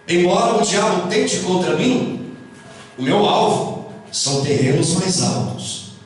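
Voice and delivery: measured poem reading with pauses between phrases; solemn verse, dropping low at line ends; poem recitation. Acted.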